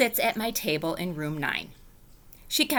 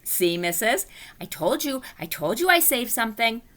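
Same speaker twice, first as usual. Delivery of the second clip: very proud; 5 semitones higher than usual. Acted. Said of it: "I smiled, very proud".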